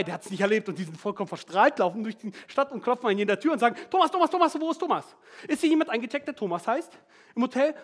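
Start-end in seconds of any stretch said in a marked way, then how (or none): 3.9-7.7 calling out. Retold or imitated. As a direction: call for him door to door. Disciples searching, calling out.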